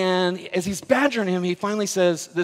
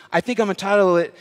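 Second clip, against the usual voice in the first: impassioned claim; 2 semitones higher, 6 dB louder, faster than usual. Retold or imitated. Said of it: "with passion".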